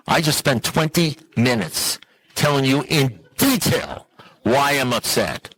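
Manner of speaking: slow, emphatic retort; slowly insisting on being heard; exasperated. Retold or imitated. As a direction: spell it out in exasperation, word by word. Exasperated retort to sponsor in retold argument.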